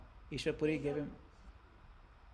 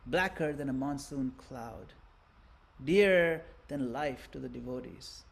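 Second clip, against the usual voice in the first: distraught barber; 3 semitones higher than usual. Acted. Barber refusing to shave the young saint, anguished plea. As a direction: beg not to be made to cut it. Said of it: "He says".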